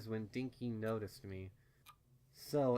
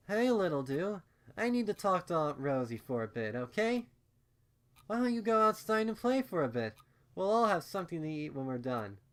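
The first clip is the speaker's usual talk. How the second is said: higher, louder sing-song mother voice; gentle mother; 8 semitones higher, 7 dB louder than usual. A narrator's reading. Mother asking her daughter to go play, higher and coaxing. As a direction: coax your little one outside kindly.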